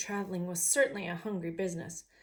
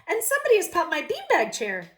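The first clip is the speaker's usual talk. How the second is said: put-on higher, louder cheerful child; happy little person; 9 semitones higher, 10 dB louder than usual. Shown as a demonstration. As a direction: read it happy, like he's thrilled. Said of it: "maybe I should read it like".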